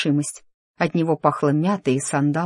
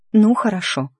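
giving in; 6 semitones higher, 4 dB louder than usual. A narrator's reading. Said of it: "сдалась Шарлотта".

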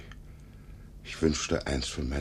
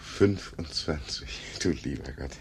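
whisper. Acted. Old man amazed at her age.

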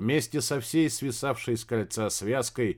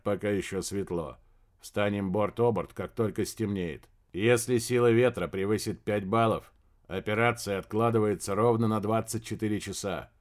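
lightly lowered, steady male voice; calm man's voice. Acted. Male character on the phone.

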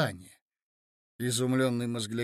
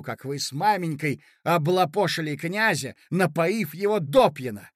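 angry threat; 4 dB louder than usual. Acted. Mozglyakov threatens Zina.

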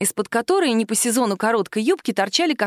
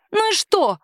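defiant; 12 semitones higher than usual. A narrator's reading. Woman defiantly retorts to the captain. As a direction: fling it back. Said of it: "заявила".

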